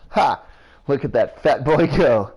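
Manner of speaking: loud, high jeering crow; mocking old woman. Old woman jeers at the fleeing fat boy, loud and high. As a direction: jeer at the running boy.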